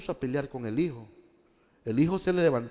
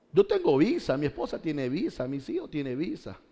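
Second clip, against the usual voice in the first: mocking emigrant; 3 semitones higher than usual. Voices a fleeing believer.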